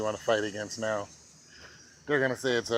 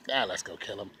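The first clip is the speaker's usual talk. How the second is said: mock official; 4 semitones lower, 5 dB quieter than usual. Mocking government officials' voice.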